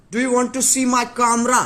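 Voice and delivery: very high, loud and slow; silly put-on voice. Vlogger teasing chat about his room, loud high silly voice. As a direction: croon it like a goofy host.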